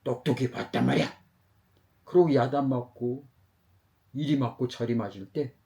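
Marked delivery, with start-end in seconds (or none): 0.0-1.2 mildly heated telling-off; scolding. Acted. Bakery owner insists he saw the theft, scolding mildly. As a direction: press the accusation on the child. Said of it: "그러면서 막 야단치는데".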